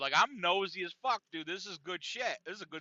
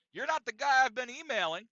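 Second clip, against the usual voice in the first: raised, louder accusing voice; Bob peeved; 6 semitones higher, 6 dB louder than usual. Retold or imitated. Bob disputing with the director, imitated peeved voice. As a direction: act out an irritated challenge. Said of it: "He's angry. He's, he's a bit peeved".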